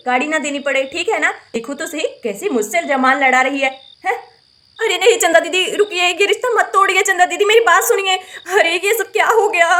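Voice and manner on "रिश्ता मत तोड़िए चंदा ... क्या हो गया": tearful cry of dismay. Acted. Bride's sister-in-law crying as the wedding falls apart. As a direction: cry it out, voice breaking with distress.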